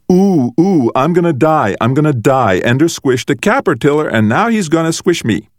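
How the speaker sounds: high, loud whimpering panic, hammed up; mock terror. Brother mocks Ender's threat with fake dread, mock terror.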